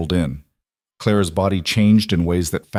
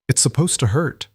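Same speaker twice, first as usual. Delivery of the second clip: gently firm, higher voice; kind but firm; 5 semitones higher than usual. A narrator's reading. Ruth tells the labouring mother pain is normal, kind but firm. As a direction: reassure her, but firmly. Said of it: "Ruth's voice was kind but firm".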